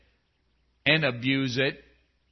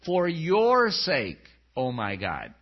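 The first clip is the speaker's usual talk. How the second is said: humble prayer; slower than usual. Shown as a demonstration. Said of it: "do your prayers sound like that".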